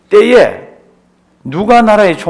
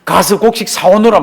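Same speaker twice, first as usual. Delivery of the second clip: nagging father. Retold or imitated. Father Jacob pushing his sons to buy grain, mildly nagging. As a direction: urge them off like an impatient father. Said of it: "막 닥달을 하는 거 있잖아요".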